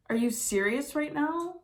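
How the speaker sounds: real laugh spilling into a high question; incredulous laughing question; laughing in disbelief. Real, not acted. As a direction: laugh it out, stunned by the cards. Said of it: "I'm laughing".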